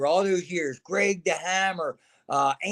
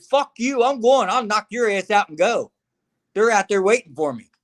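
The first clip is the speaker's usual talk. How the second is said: defiant retort; 3 semitones higher, 4 dB louder than usual. Retold or imitated. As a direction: shout back that you're going anyway. Acted quarrel with Bruce.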